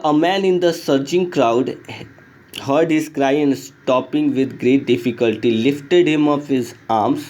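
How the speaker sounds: slow, careful reading of the story text. A narrator's reading. Teacher reading the English lesson aloud, slow and clear. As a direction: read the passage slowly for the class.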